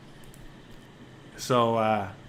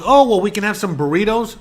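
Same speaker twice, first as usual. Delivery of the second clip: higher, sweet wife voice; a light sing-song wife; mock wife; 4 semitones higher, 5 dB louder than usual. Wife offering husband burritos, high and sweet.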